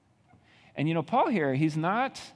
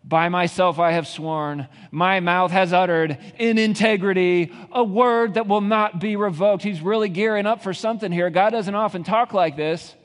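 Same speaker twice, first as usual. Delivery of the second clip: louder and higher, building fervent climax; preaching at full force; 8 semitones higher, 8 dB louder than usual. Acted. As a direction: climb with every line, then tease the congregation.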